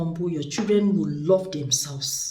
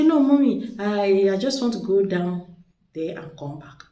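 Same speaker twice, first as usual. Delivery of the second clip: put-on child pleading; 3 dB louder than usual. Daughter answering mother.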